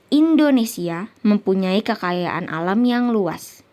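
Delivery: slow statement with falling intonation; measured example sentence, falling at the end; declarative statement. Shown as a demonstration. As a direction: read it as a complete statement, slowly, ending downward. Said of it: "menggunakan intonasi menurun dan tanda baca titik".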